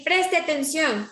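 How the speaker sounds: slow, firm "Preste atención"; firm command. Shown as a demonstration. Teacher ordering the class to pay attention, slow and firm. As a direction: call the class to attention slowly. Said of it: "Estoy dando una orden".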